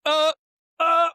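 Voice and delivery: high, loud yelps spaced apart; hammed-up helpless noises before impact; mock panic. Driver as everything slows before the wall, acted panic. Acting slow-motion crash panic.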